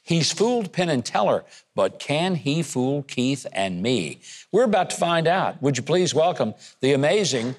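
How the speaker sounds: measured build-up to a lifted welcome; show host introduction. Real, not acted. Host bringing on a magician for the audience, announcer-style introduction. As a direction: introduce the star act with emphatic key words and a rising finish.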